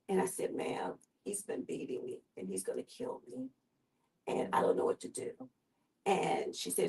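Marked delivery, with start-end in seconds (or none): 0.5-5.3 secret whisper. Retold or imitated. Secret plea to nurse.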